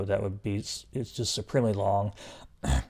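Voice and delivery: strained, fading voice from long talking; tired voice, going hoarse; losing voice. Real, not acted. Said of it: "I'm losing my voice".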